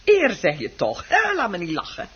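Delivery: loud, scornful scoffing at the word Eer; the wife mocks her husband's honour, loud and scornful; scornful outburst. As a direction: pour scorn on his pride.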